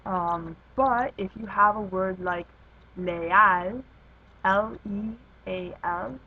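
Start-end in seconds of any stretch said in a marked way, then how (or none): 3.0-3.8 "leal" with a loud AL; stress on last syllable of leal. Shown as a demonstration. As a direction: punch the AL in "leal". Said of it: "the emphasis should go on the last syllable".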